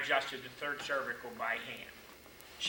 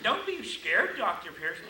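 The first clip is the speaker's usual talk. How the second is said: high-pitched patient voice, raised; imitating the grateful patient's reassurance; quoted patient; 7 semitones higher, 7 dB louder, slower than usual. Patient reassuring the scared doctor, higher voice.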